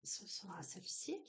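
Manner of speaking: soft whisper while picking the card; hushed whisper as the card is chosen. Real, not acted. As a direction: breathe it out under your voice. Choosing the card.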